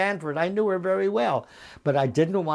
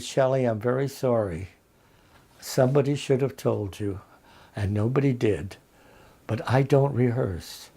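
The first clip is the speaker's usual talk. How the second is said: low, measured, unhurried refusal; deadpan apology; 5 semitones lower than usual. Retold or imitated. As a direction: apologize calmly and don't budge. Retells his deadpan apology to Shelley.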